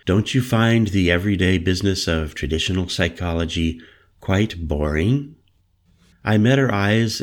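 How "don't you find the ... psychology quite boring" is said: put-on light lilting Scandinavian accent; a lilting Swedish lilt, lightly voiced. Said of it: "she said in her lilting Scandinavian accent".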